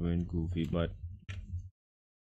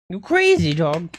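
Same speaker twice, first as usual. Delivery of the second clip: much higher, louder teasing squeal; squeaky pet voice; 3 semitones higher, 10 dB louder than usual. Real, not acted. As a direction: squeal fondly at the dog. Repeats squeaky.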